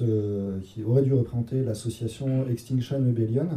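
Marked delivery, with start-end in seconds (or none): 2.5-3.5 French speaker's attempt at an English accent; accent anglais. Real, not acted. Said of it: "admirez mon accent anglais". (accent anglais à la française)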